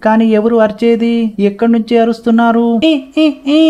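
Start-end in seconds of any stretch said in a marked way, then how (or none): 2.9-3.6 high, short "eh" yelps; acted trapped cries. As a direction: cry out in bursts from a trap. Trapped figure cries out to be found. (చిక్కుకున్నట్టు నటిస్తూ హెచ్చు స్థాయి అరుపులు)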